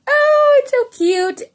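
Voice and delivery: high squeal of delight; squealing oh it's so cute; gushing over cute kitties. Retold or imitated. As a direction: coo like you just saw kittens. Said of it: "And then I go from".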